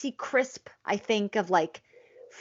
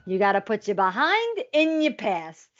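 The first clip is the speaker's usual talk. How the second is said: lightly voiced movie character. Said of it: "You do a better impersonation".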